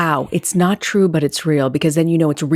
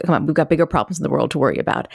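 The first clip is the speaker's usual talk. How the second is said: quick, mildly impatient brush-off; dismissive; faster than usual. Retold or imitated. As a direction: rush through it like a parent waving away a small worry. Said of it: "I'm being dismissive".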